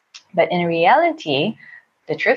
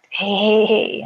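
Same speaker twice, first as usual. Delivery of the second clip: higher-pitched, lightly acted wake-up call; gentle waking call; 5 semitones higher, slower than usual. Woman waking her sleeping partner, gentle retold call. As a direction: coax a sleeper awake, lightly imitated. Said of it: "waking him up".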